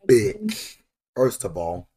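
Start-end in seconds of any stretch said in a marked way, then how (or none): 0.1-0.8 angry shout. Real, not acted. Yelling at game character.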